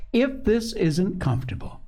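high-pitched cheerful remark; lightly acted cheery mother. A narrator's reading. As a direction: greet the cosy scene brightly. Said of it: "Missus Pepper's cheery voice".

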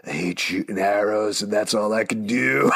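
lightly put-on sullen hero voice; a hint of mopey resignation; Clint. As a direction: imitate a glum grump in a slightly altered voice. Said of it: "Clint's whole mode for most of the".

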